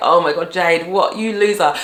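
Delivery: ordinary talk, nothing marked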